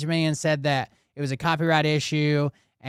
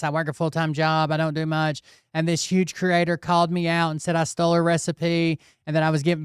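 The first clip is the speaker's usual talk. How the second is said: mimicking a crying girl; 2 semitones higher than usual. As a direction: lightly imitate her tearful excuse video. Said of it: "crying video and says that".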